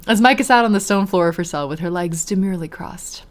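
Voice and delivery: measured read-aloud storytelling; story narration. A narrator's reading. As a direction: narrate the scene evenly.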